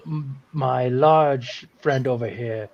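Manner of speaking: lightly voiced formal king; Rat King. King introducing his friends to children, formal character voice. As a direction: present your companions with measured formality. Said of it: "I forgot my Rat King voice".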